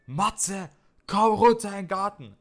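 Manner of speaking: high calling shout up to the window; high mock mother's call; mom yelling. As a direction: yell it like a mother calling her son. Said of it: "meine Mom schreit".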